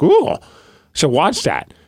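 excited ooh. Retold or imitated. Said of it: "I'm like".

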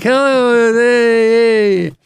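bubbly high waving hello; showgirl greeting. Retold or imitated. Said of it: "she waves to everybody like".

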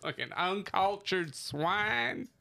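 slow, mock-haughty insult; mock snooty. Sneering at a friend in mock snootiness. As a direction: drag it out like a snob. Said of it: "mock insult".

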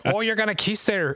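high, botched attempt at Scottish; bad Scottish accent. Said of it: "I can't do a Scottish accent".

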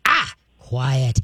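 dog trainer's correction cue; firm correction. Shown as a demonstration. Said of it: "what you're gonna do is go".

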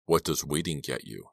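smooth, level menace; terrifyingly calm. Acted. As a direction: stay chillingly calm. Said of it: "calm, terrifyingly calm".

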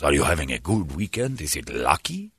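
low, softened, suave attendant; beautiful speaking voice. Retold or imitated. Attendant asking after a guy's weekend, beautifully spoken. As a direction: imitate a smooth host making small talk. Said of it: "He's got a beautiful speaking voice".

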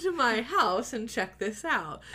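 mock-composed emergency call, lifting in pitch; calm, matter-of-fact. Wife phoning emergency services about her husband, mock-calm. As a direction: act absurdly polite and unruffled. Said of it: "Very calm, very matter of fact".

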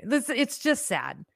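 "This, it's just sad" drawn out slowly, words stretched; slow sad sigh. Real, not acted. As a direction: let it sink, slow and heavy. Lamenting the country.

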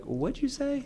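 high, challenging comeback; mock picking a fight from the other room; confrontational challenge. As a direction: square up with a pointed question. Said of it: "inviting me to go in there and be like".

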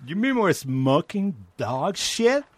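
put-on high, slow Mexican-accented stoner. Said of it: "Can you do a Mexican accent?".

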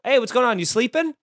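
breezy, falsely innocent phone greeting; fake-innocent wake-up check. Shown as a demonstration. Calling a busy friend, faux-innocent greeting. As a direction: sound like you assume they dozed off. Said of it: "just saying, "Are you sleeping?" makes him so mad".

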